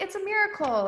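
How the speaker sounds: high, gushing friend voice. Retold or imitated. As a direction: quote the friend in awe. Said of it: "my friend was like".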